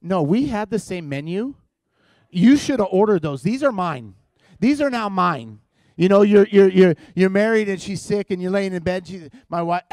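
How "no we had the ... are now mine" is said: possessive husband. Retold or imitated. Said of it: "You're like".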